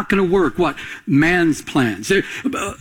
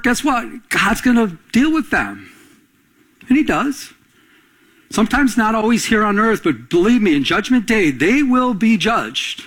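raised, rising preacher's voice building in fervour; preaching; 5 semitones higher than usual. Acted. Pastor rallying his congregation, preaching with fervour. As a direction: preach it out to the room, higher and stronger.

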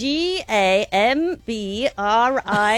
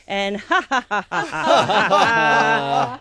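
smiling laugh; much slower than usual. Shown as a demonstration. Teacher leads another smile-and-laugh round. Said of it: "one more smile, breathing up".

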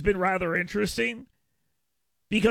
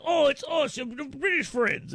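mock Cockney; 4 semitones higher, slower than usual. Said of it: "They're all Cockney".

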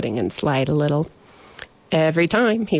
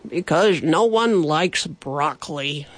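quiet, dejected. Acted. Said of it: "he said quietly".

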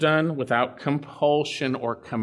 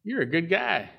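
casual buddy voice; 4 semitones higher than usual. Retold or imitated. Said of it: "Abraham could have said".

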